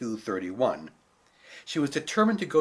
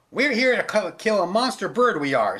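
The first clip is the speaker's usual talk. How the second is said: gruff guard; 7 semitones higher, 7 dB louder than usual. Acted. Guard explains loudly.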